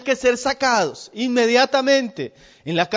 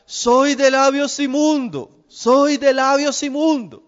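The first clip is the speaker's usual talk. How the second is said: a hint of a leper's call, higher and slow; leper's cry; 5 semitones higher, slower than usual. Leper warning passers-by away, mild slow mock cry. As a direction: slowly call out the warning, a touch raised. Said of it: "el leproso tenía que gritar".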